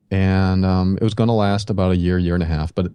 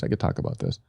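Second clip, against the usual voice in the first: much lower, whispered to self; 13 semitones lower, 7 dB quieter, faster than usual. Retold or imitated. After the first blog post, a whispered realization. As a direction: breathe it out to yourself. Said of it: "I was like".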